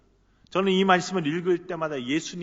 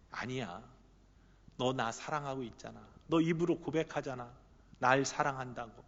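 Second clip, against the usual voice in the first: soft and low, almost a murmur; hushed tender Jesus; 4 semitones lower, 6 dB quieter than usual. Acted. Jesus gently reassuring Peter, hushed and soft. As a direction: lean in close and speak softly. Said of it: "이렇게 속삭이시는 것 같아요".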